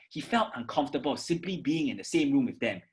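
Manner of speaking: fast, run-on without breath; mock rushed read; rushed, no pause. Shown as a demonstration. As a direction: rush it all in one go. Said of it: "your pace becomes very fast".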